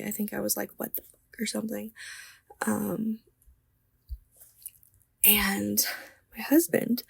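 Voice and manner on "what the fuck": breathy unvoiced whisper of shock; whispered swear. Woken in the night, she whispers in shock. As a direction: whisper it, startled in the dark.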